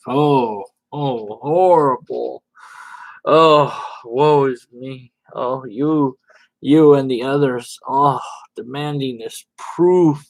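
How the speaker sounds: hammed-up sarcastic lament; mock woe. Sarcastic lament mocking Red Dead's complaint. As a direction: wail it with fake despair.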